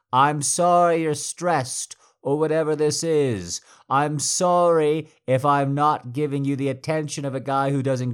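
loud, high angry yell. Acted. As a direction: shout him down in fury. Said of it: "I am fucking yelling".

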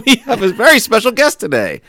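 steady storyteller reading; story narration. Acted. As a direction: read it like a comic tale. Reads a parody story aloud.

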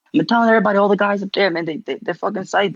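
quick, lightly put-on Staten Island accent; hint of Staten Island in a rushed retelling; Spam. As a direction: imitate a buddy's fast Staten Island chatter. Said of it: "giving him such a Staten Island accent".

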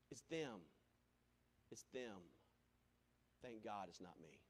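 preacher mimicking people shrugging off each hurricane; mock indifference. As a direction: play the careless bystander.

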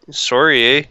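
put-on Canadian-accented apology. Guy in trouble apologizing, in a Canadian accent. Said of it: "when he's in trouble, he just goes".

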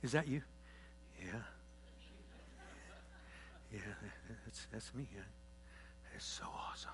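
very soft, flat, half-whispered yeah; mock bored response. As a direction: imitate an unmoved congregation. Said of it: "you guys can just sit there and go".

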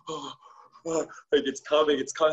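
high urgent retelling of panic; wife in labour crying out it's coming, mock-urgent; panicked wife. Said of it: "Desiree's like".

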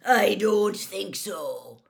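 slow, loud roar; Moody. A narrator's reading. Moody stops the fleeing ferret, roaring. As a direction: roar it out, drawing each word. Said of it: "roared Moody".

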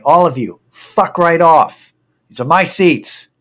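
re-enacted indignant demand; retold angry outburst. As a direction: send the whole group packing. Yelling at everybody behind him.

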